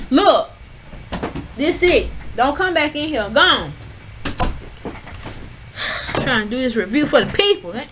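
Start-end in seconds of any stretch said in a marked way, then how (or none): 0.1-3.7 telling the dog off, sending it out; shooing dog. Real, not acted. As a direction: order the dog out.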